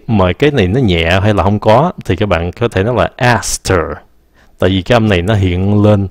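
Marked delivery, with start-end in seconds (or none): 3.2-3.8 "aster" as asked and her joined in one word; "aster" with H gone, T linked to the vowel. Shown as a demonstration. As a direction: run the T straight into -er in "aster". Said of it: "nó nối với cái âm her".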